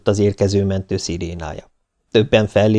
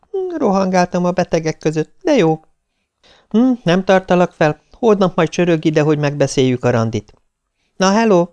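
put-on higher, friendly girl's voice; a bright young woman calling a friend, higher; young woman on the phone; 9 semitones higher than usual. Viktória calls Nándi at dinner, friendly higher voice.

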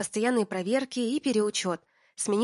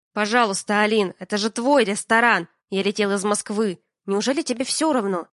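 louder, pressing plea; urgent pleading; 6 dB louder than usual. Acted. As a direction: push hard to win her over. Миша умоляет Алину.

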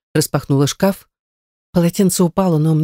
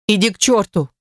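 near tears; 5 semitones higher than usual. A narrator's reading. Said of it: "чуть не плача прошипела я".

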